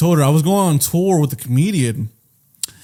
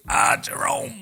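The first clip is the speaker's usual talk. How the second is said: very high, softer silly voice; put-on disguise character; 12 semitones higher, 6 dB quieter, slower than usual. Disguised man giving his fake name, silly high voice. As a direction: pitch it way up, hammy.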